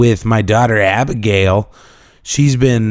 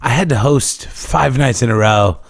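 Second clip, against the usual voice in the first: worn-out, hoarse voice from shouting. Real, not acted. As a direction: speak through a shot, hoarse voice. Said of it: "my voice is shot".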